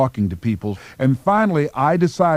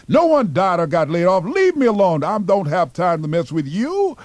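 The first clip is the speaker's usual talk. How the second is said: higher, curt dismissal; exasperated boss; 6 semitones higher than usual. Retold or imitated. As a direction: shoo him away. Annoyed boss brushing off applicant.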